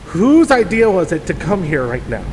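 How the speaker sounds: loudly fed up; complaining loudly. Acted. Acted spooky skit, rain outside.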